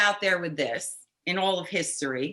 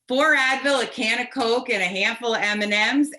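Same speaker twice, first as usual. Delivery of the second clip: irritated; faster than usual. Retold or imitated. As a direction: reel it off fast in exasperation. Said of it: "now I'm getting irritated".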